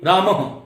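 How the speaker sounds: रामः said as "ramaha" with the a echoed after the h; रामः with a breathy "ha" at the end; visarga echo. Shown as a demonstration. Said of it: "ह की ध्वनि आएगी".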